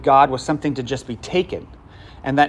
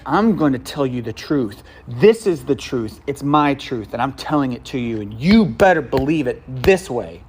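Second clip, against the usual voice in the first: smug know-it-all. Retold or imitated. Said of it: "spiking the football kind of way".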